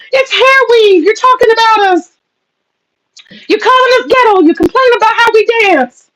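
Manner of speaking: high, whiny mock wail of grievance; mock crying complaint. Mocking femcels' complaints.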